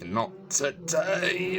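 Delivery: high, slow shout through clenched teeth; gritted-teeth shout. Retold or imitated. Dewey fighting off Ghostface, gritted-teeth shout. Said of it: "shouts through gritted teeth".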